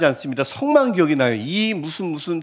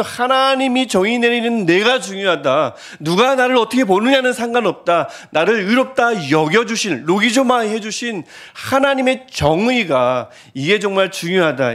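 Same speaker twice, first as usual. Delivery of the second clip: raised, insistent declaiming; 3 semitones higher than usual. Retold or imitated. Preacher voicing the apostle's appeal, insistent proclamation. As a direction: proclaim it with emphatic conviction. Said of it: "이렇게 외쳐도".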